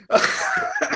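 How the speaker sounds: squealing, high-pitched laugh. Real, not acted. Keeps laughing at Gino.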